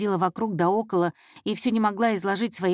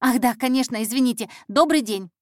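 put-on hurried, slightly raised girl's voice; flustered apology; 4 semitones higher, 4 dB louder than usual. Intern corrected by the detective, flustered and apologetic.

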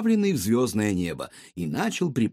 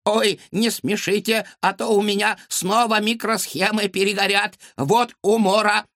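laughing robot; 10 semitones higher, 4 dB louder than usual. A narrator's reading.

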